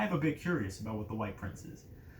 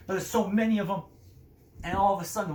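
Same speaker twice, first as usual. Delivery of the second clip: building excitement; 5 semitones higher, 6 dB louder, faster than usual. A narrator's reading. Battle narration builds.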